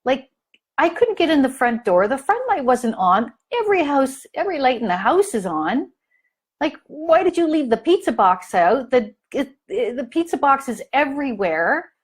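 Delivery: lightly acted frustrated parent scolding; mock angry rant. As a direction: vent at the teen, exasperated but not shouting. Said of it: "You're gonna say".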